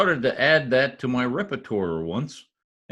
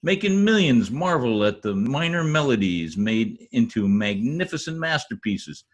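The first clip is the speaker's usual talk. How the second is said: grand alliterative boast. Acted. Tongue-twister boast about himself.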